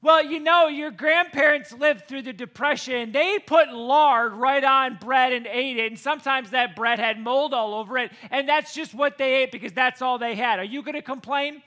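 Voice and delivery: mom lecturing. Retold or imitated.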